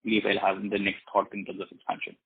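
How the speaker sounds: muffled and hard to hear. Real, not acted. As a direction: speak as if through a covered mic. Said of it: "sorry, your voice is very muffled".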